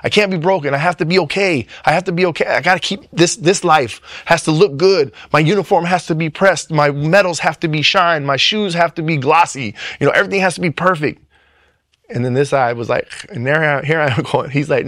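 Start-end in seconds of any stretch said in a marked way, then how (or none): 0.0-11.2 higher, pressured, repeating I can't be broken; a driven perfectionist pushing himself; anxious inner voice. Retold or imitated. A man insisting to himself he must look perfect, higher and pressured. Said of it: "my whole life I'm like".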